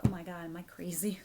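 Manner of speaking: breathy whisper, half to herself; whispered self-doubt. Pretend. Reader imagining replaying her video, whispering. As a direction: hush it like doubting your own sanity. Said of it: "I'm gonna be like".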